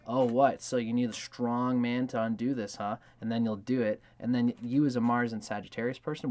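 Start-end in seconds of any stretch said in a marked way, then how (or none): 0.1-3.0 louder, mock-challenging tease; a cheeky dare to a lover; teasing challenge. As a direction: needle him playfully about needing a strong man.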